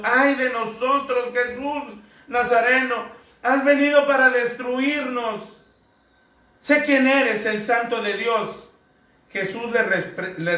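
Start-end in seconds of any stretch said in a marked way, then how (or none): 0.0-8.7 raised, higher demon cry. Acted. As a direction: cry out as the unclean spirit, louder. Demon cries out in scripture. (grito de demonio, más alto y fuerte)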